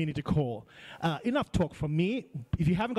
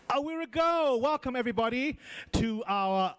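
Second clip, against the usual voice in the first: excited welcome; 5 semitones higher than usual. Real, not acted. Host opens the live call.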